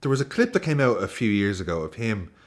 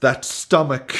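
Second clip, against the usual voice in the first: higher, put-on British reading; generic British accent; 4 semitones higher, 3 dB louder, slower than usual. Host reading poem about lover's stomach, generic British accent. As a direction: admire it in a mock British accent. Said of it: "just gonna do generic British accent".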